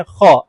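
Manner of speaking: kha from the throat, rough and guttural; demonstrating the throat letter; throat sound kha. Shown as a demonstration. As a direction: scrape ख from deep in the throat. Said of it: "पांचवा मखरज बड़ा आसान है".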